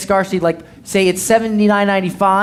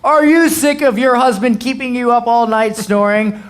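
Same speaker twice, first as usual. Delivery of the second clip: crazy ad guy; 5 semitones higher, 3 dB louder than usual. Retold or imitated. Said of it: "crazy guy to go like".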